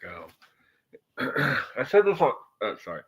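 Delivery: muffled through cupped hands; talking into your hands; hands cupped over mic. Real, not acted. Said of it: "speaking into my hands".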